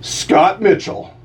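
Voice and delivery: slow, deliberate announcer read; hammed-up promo read; radio slogan. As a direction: deliver the tagline with mock gravity. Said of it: "brace yourself".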